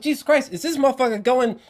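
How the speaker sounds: high, loud amazed outburst; amazed exclaim. Retold or imitated. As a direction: gasp out the disbelief. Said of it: "I was like".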